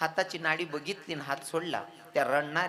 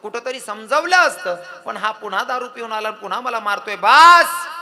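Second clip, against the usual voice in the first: despairing outburst; 4 semitones higher, 11 dB louder than usual. Acted.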